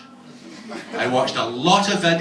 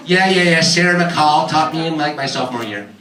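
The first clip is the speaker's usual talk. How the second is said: put-on American accent. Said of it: "nice young American girl".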